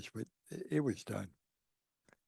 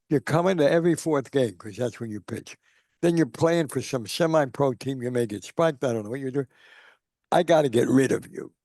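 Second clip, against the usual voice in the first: exasperated boss; 2 semitones higher, 4 dB louder than usual. Retold or imitated. Greenlee dismisses Satchel Paige.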